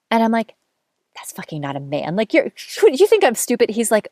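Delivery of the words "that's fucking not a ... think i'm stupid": mock indignant outburst. Drunk date, jealous outburst retold.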